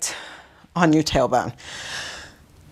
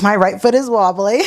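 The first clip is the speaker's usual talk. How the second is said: laughing; 5 semitones higher than usual. Real, not acted. Laughs at own wobbly balance.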